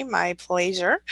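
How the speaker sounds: slow, put-on prim reading of a comment; mock fancy voice. Thanking a viewer in a mock fancy slow voice. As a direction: read it in a slow, affected voice she doesn't really use. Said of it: "I don't really talk like that".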